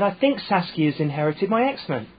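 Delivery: put-on mild Essex accent, repeating it patiently. Sister-in-law repeating herself on the phone, in an Essex accent. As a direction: imitate an Essex sister-in-law saying it again. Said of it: "clear in the accent".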